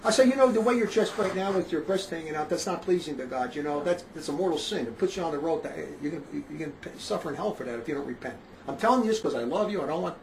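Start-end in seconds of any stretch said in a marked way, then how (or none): 0.3-8.4 softer, quieter, calm and earnest; gentle private warning. Retold or imitated. Preacher gently warning an immodest woman one-on-one, soft and earnest. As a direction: ease into it like a gentle word in private. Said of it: "when you're talking to her privately".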